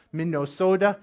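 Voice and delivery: Minnesota with long Midwestern o sounds; Midwestern accent. Retold or imitated. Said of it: "talking like that Midwestern accent".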